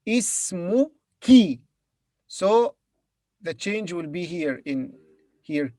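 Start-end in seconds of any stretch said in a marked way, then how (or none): 0.1-1.6 ismuki, slow, ending on a clear i; ismuki, stress the final ki; feminine ending i. Shown as a demonstration. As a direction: end ismuki on a long i. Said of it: "But for female, it will be".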